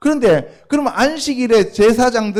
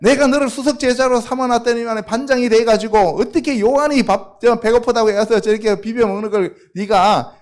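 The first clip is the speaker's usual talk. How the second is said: mock scolding; 3 semitones higher than usual. Jesus imagined scolding Peter.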